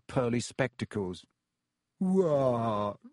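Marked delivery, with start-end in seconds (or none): 2.0-3.0 put-on glum ghost girl snapping; sullen, moping reply; sulky. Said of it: "she said sulkily".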